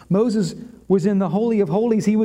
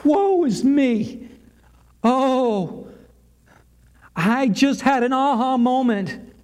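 mild anguished cry, raised pitch; acted lament, higher than usual; crying out in woe; 3 semitones higher than usual. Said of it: "he cries out".

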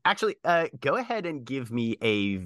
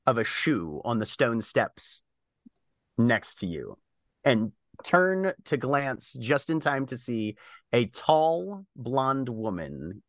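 measured game master narration with pauses; unhurried tabletop storytelling; scene-setting narration. Acted.

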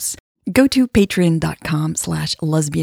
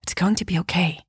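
softer, gently reassuring; a soft promise to a worried partner; softly; 5 dB quieter than usual. Acted. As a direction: comfort her quietly. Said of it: "she said softly".

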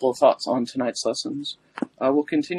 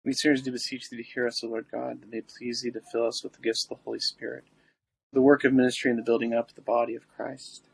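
prayer; faster than usual. Acted. Recites the litany.

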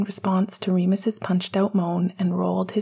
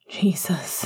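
breathy; 2 semitones lower than usual. Acted. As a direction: let it out on a breath. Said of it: "he breathed".

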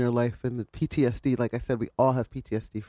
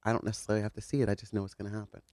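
off mic; 3 semitones lower, 8 dB quieter, much faster than usual. Real, not acted. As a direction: voice drops away from the microphone. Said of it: "You're off mic".

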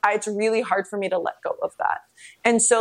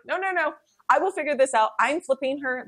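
higher-pitched, stubborn self-quote; insistent refusal; 5 semitones higher than usual. Retold or imitated. Refusing a C-section at the hospital, stubbornly insistent.

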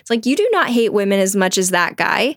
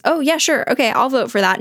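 eager agreement; 5 semitones higher than usual. Retold or imitated. Husband agreeing too readily, retold.

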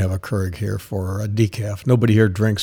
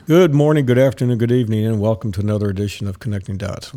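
announcer greeting; faster than usual. Acted. Show opening greeting.

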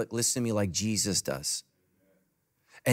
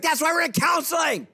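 high, exasperated mock shout; retold shouted retort; 4 dB louder than usual. Husband yelling back at wife during counseling fight, shouting. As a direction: yell back in a high-pitched voice.

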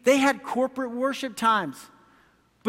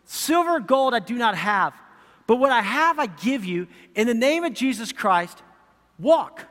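powerful proclamation. Shown as a demonstration. Preacher showing the power of Peter's words, commanding. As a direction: proclaim it with power, landing firmly on walk. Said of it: "listen to this power right here".

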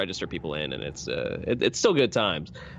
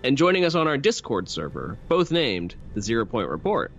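upbeat host sign-off; podcast outro read; 3 semitones higher than usual. Acted.

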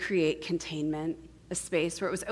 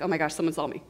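understated alarm at being seen; mock fright, low and fully voiced; mildly acted terror; 4 semitones lower, much faster than usual. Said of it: "we're also immediately terrified".

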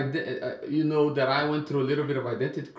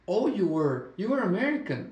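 high-pitched imitation of a surprised shop lady; mock surprise; 6 semitones higher than usual. Shop lady to a visitor back home, mock-surprised. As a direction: play up the astonished "oh", voice lifted. Retold shop lady's astonished remark.

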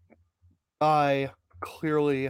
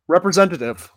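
louder, spelling it out for the machine; loud clear command; 7 dB louder, faster than usual. Acted. Caller says representative to menu.

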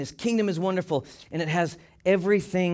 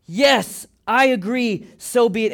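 raised, steady declaration of assent; firm emphatic agreement; 4 semitones higher, 4 dB louder than usual. Shown as a demonstration. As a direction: affirm it firmly without shouting. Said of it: "an emphatic way of voicing your agreement".

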